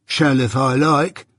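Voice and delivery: slow, sullen growl; growled retort. Acted. Journeyman defying his master, slow growl. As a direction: growl it back slowly. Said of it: "growled Orlick".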